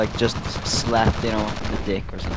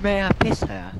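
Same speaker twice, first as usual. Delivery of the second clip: mock drunk bum; 10 semitones higher than usual. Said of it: "friend repeats the bum's line".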